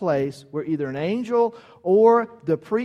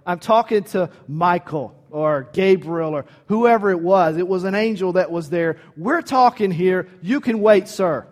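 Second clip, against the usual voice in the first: dismissive reply. Retold or imitated.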